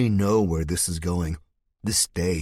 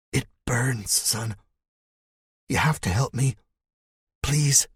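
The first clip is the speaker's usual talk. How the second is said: pleading; 6 semitones higher than usual. Acted. Dying man begs for help.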